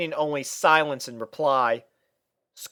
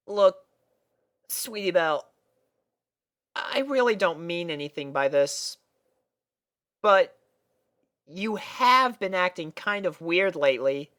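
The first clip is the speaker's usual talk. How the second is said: gentle Scootaloo; 6 semitones higher than usual. A narrator's reading. Scootaloo gently telling Sweetie Belle to take a break. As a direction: break it to her kindly.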